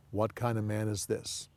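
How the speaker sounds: soft, hushed wonder; hushed awe. Shown as a demonstration. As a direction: breathe it out, amazed. Disciples' awed question, hushed.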